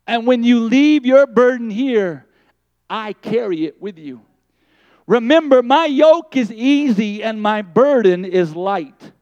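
the Lord's promise rising like a sermon; the Lord, swelling to a proclamation. Acted. The Lord promising to carry her burden, swelling loud.

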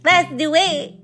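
high, stunned disbelief. Real, not acted. Shocked reaction to splitting bill.

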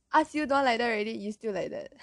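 quick mock scolding in a Malaysian accent. Malaysian parent to hurt child, mock scolding. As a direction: rattle off a Malaysian parent's telling-off. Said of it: "I just noticed my Malaysian accent come out".

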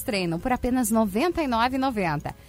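upbeat radio ad read; hard sell ad. Acted. Reads sponsor ads on air.

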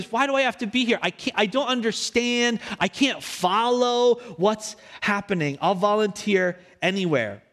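put-on whining kid. Bored kid begging to leave the sermon, a touch whiny. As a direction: plead to get out of the sermon. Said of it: "And I would say".

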